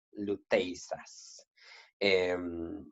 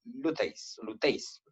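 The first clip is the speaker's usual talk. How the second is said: "luteis" stressed on the e, gliding into i; 6 dB quieter, much slower than usual. Shown as a demonstration. Teacher modelling the Greek, "luteis" stressed on the e. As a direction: say "luteis" with ei as one syllable, e stronger. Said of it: "se pronuncia como si estuviera sobre la primera".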